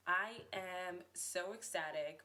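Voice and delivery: slow, flat claim of excitement; deadpan ecstatic. Real, not acted. Host admits the intro doesn't sound excited, slow and deadpan. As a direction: say you're ecstatic without selling it. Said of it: "It may not seem like it".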